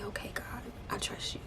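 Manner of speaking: soft retold prayer, nearly whispered; quiet surrender. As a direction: give in softly to God.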